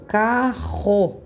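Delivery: carro with the rr from the back of the throat; throaty double R. Shown as a demonstration. Teacher models carro with the guttural R. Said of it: "Por exemplo".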